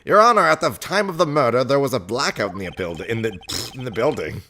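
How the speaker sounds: lightly voiced lawyer addressing the judge. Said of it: "I'm gonna have so many voices".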